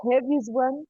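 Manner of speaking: muffled headphone mic, words smeared. Real, not acted. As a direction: talk through a covered microphone. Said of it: "it sounds like your microphone's muffled".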